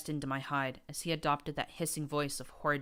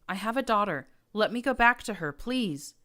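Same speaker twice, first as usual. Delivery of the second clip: higher, louder tearful begging; sobbing plea; 6 semitones higher, 7 dB louder than usual. A narrator's reading. Captive mare pleading to return to her daughter, sobbing. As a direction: beg for your daughter through sobs. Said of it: "sobbing as she slumped".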